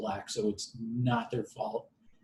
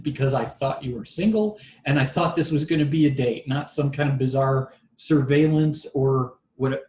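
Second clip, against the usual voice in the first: louder, emphatic comeback; retold exasperation; 2 semitones higher, 6 dB louder than usual. Telling his date he expected a real date, exasperated and louder. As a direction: argue back at full conviction, a touch exasperated.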